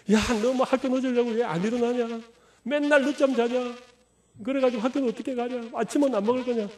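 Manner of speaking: mock-scold a late-sleeping kid; scolding parent. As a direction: parent nagging a child to get up for school. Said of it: "그러지 마시고요".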